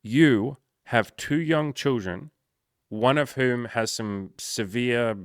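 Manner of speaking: slow, pointed coaching question; pointed retelling. Retold or imitated. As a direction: spell it out to him slowly. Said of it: "And I was like".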